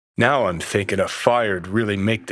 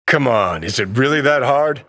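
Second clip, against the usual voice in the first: exasperated; 3 semitones higher, 5 dB louder than usual. Acted. Exasperated urging to smoke.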